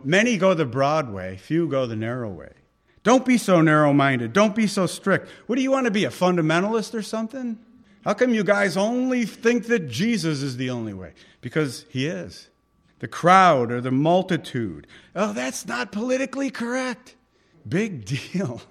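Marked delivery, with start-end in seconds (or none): 3.0-5.3 scolding crowd voice. Acted. Preacher voicing scolding crowd. 5.5-10.4 mocking crowd taunt. 15.2-18.6 a high, mocking sneer at political correctness; sneering crowd voice. Preacher mocks the crowd's sneer at believers, high and scornful.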